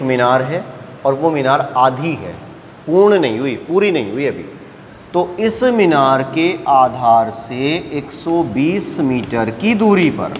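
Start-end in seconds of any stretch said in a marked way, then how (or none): 5.1-10.3 slow, measured teacher's dictation; slow, careful reading. Real, not acted. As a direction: read it out slowly so students can follow. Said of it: "धीरे धीरे बोल रहा हूँ". (धीरे-धीरे, ढंग से बोलते हुए)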